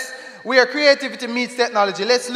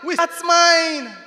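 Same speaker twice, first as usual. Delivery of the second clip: rhythmic spoken-word poem; poem recital; 3 semitones higher than usual. Acted. Performer recites a poem to the crowd, rhythmic.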